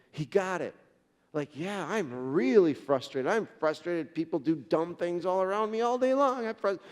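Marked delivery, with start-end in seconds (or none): 1.5-6.8 loud, exasperated venting, pitch rising; really frustrated. Retold or imitated. Husband admitting his frustration at last, loud exasperated outburst. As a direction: build the frustration as you imitate him. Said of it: "it's like, it's like really frustrated".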